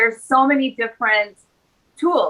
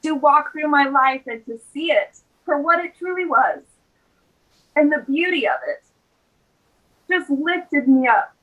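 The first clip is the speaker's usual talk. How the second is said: tearful; 3 semitones higher than usual. Real, not acted. Recalling a sacred walk as a pregnant mom, tearful. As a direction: hold back real tears, with long pauses. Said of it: "I can feel tears welling up".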